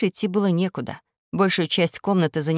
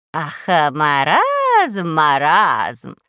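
put-on old woman voice; 4 dB louder, much slower than usual. Grandmother exclaims.

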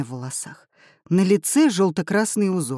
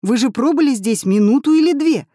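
louder and higher in disbelief; astonished exclaim; 8 semitones higher, 6 dB louder than usual. A narrator's reading. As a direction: exclaim in total confusion. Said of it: "воскликнул Семён".

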